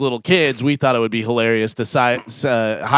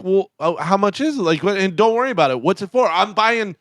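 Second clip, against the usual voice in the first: flustered stranger; 6 semitones higher than usual. Retold or imitated. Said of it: "they'll be like".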